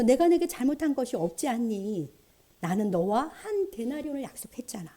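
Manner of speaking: mildly chiding, softening toward the end; understated reproach, trailing into a hush; gentle reproach. Acted. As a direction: reprove a friend without raising your voice. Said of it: "책망 섞인 말씀을 하시는데요".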